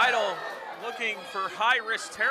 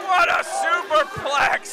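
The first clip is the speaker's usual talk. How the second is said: excited call; 4 semitones higher, slower than usual. Real, not acted. Calling the big move.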